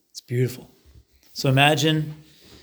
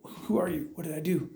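baffled; 3 semitones higher, 7 dB quieter than usual. Acted. Baffled visitor questions kneeling stranger.

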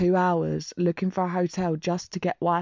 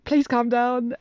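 urgent pleading; 6 semitones higher, 4 dB louder, slower than usual. Retold or imitated. Friend pleading with hysterical caller.

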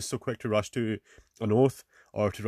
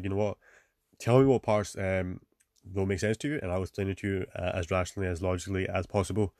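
calm, rational; 3 semitones lower than usual. Acted. Truthful person answering someone who misunderstood, calm and rational. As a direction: calmly offer to explain, keeping it low-key. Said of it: "I'm gonna be calm, I'm gonna be rational".

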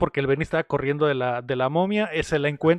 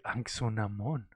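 low mummy voice; 7 semitones lower, 12 dB quieter, slower than usual. Acted. Mummy calls the woman by name.

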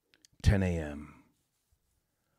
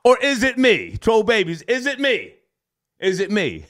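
high, loud laughing question; laughing, asking troll babies if it's him; 8 semitones higher, 4 dB louder than usual. Real, not acted. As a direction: tease the audience through laughter. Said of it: "teasing viewers, laughing".

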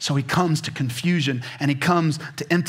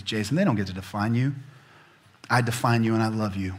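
lower, soft reassuring words; gentle voice of Jesus; 4 semitones lower, 3 dB quieter than usual. Retold or imitated. Jesus whispering comfort to a guilty man, tender. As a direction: speak it tenderly, close to the ear. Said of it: "He goes".

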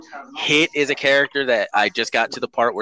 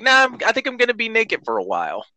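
put-on kid voice; 9 semitones higher, much faster than usual. Voicing kids in a hypothetical.

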